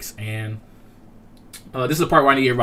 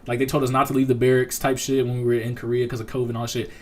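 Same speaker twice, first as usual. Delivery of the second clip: usual speaking voice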